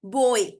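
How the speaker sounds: बॉय with "o" gliding into "i"; gliding diphthong. Shown as a demonstration. Teacher gives a diphthong example, gliding बॉय. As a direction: let both vowels sound in बॉय. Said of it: "suddenly it changes to an other".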